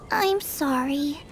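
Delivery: chastened and sorry; contrite apology. Acted. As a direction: apologize with regret. Apologizing after being scolded.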